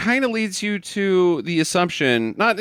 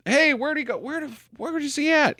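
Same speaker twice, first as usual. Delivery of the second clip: higher-pitched, urgent searching voice; acted as if hunting someone down; asking around in a raised pitch; urgent questioning; 12 semitones higher, 4 dB quieter than usual. Voicing Troutman searching for Rambo.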